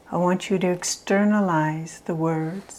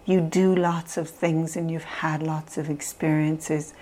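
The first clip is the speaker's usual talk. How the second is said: gentle affirmations. Shown as a demonstration. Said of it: "repeating the positive things".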